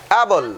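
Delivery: অ্যাবল as a clear standalone word; model pronunciation. Shown as a demonstration. Teacher modelling for those with pronunciation trouble, model pronunciation. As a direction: pronounce অ্যাবল carefully for learners. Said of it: "উচ্চারণগুলোও শিখে নেবে".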